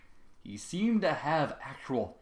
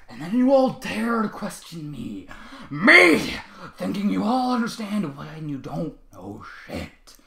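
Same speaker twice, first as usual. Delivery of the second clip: loud, higher, slow anger; angry yell; 7 semitones higher, 10 dB louder, slower than usual. A narrator's reading. Trevor yells at the ponies, angry. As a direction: spit the accusation out.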